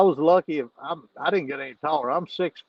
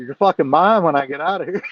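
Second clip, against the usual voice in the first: louder, swaggering taunt through the bars; cocky threat; 6 dB louder than usual. Retold or imitated. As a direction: talk trash from behind the bars. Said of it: "I'm talking shit now".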